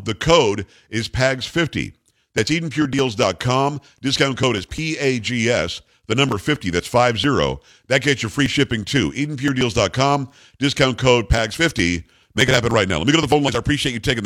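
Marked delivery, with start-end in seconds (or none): 0.0-1.9 slow code read. Shown as a demonstration. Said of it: "giving discount code slowly". 2.3-10.3 upbeat sponsor pitch read steadily; radio ad read. Acted. Host reads sponsor ad. 10.6-12.0 slow code read. Shown as a demonstration. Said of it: "repeating code slowly". 12.4-13.0 upbeat sponsor pitch read steadily; radio ad read. Acted. Host reads sponsor ad.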